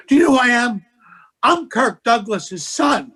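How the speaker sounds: a bombing comic's huffy boast, mildly imitated; retold yell. Comic snapping at the audience on stage, mild mock yell. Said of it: "He yells it at the audience".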